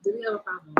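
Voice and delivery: squeaky high mock challenge through a laugh; sarcastic squeak of a challenge. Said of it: "with an attitude".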